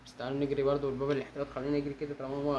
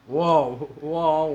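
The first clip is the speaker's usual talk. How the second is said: loud, delighted exclamation; impressed wow; 10 dB louder, much slower than usual. Real, not acted. Player seeing his car fixed and repainted, impressed wow. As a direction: belt out the amazement.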